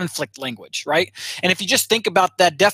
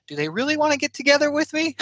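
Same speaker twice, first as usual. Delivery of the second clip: doubting inner voice; 8 semitones higher, faster than usual. Retold or imitated. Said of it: "be like".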